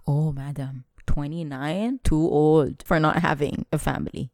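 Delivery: acted-out pitying disapproval; retold disappointment. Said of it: "the disappointment came in".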